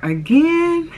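high, incredulous husband imitation; imitated astonished question; mock disbelief. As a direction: pitch it way up, in disbelief. Imitates husband's disbelief at her hunger.

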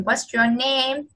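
slow, clear teacher model; slow careful English model; slow model question. Shown as a demonstration. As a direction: spell it out slowly for the child. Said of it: "Một cái là hỏi tên".

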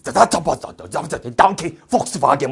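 rattled-off fake German gibberish; mock German accent. Germany chiming in beside France, mock German accent. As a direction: sputter nonsense like a comic German. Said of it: "옆에서 독일이".

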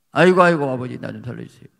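loud wailing 아이고 dropping to a begging whisper-level; desperate plea. Retold or imitated. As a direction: beg for your life. Retold desperate prayer. (아버지께 살려달라 울부짖듯)

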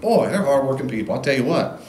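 loud, amazed reader reacting; hammed-up awe at hard workers; impressed reader. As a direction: gush like a reader won over. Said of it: "So by the end of the whole narrative".

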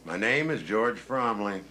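slow, stubborn, each word pressed; defiant repetition. Acted. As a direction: refuse to answer, repeat it slowly. Suspect repeats name, refusing answers.

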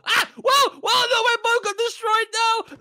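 startled shout; panicked yell. Real, not acted. Boat destroyed, panicked yelling.

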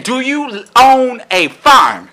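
drawn out, word by word; slow taunting question. Pretend. Repeats question to taunt the clerk.

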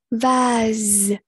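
"Vase" with a long buzzing z at the end; teacher's careful "Vase", ending on z; voiced z ending. Shown as a demonstration. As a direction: model "Vase", holding the final z. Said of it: "âm giờ".

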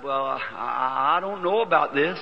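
hesitant, slow stammering start; nervous fumbling. Retold or imitated. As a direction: stumble unsurely into speaking. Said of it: "I was fumbling real nervous".

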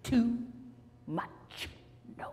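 a hint of a grumpy old man, trailing off; mild cranky huff. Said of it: "And he said".

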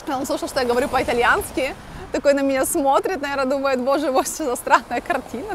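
ordinary talk

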